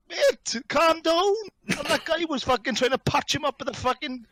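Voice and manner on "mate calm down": high, raised voice; retold urgent call. Friend retells telling stabbed man to calm down, high urgent call. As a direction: re-enact calming someone in a panic. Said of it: "I was like".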